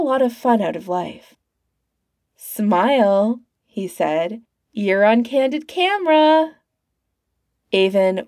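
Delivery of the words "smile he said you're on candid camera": put-on vigorous old man. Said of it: "It was an old man, but one still vigorous".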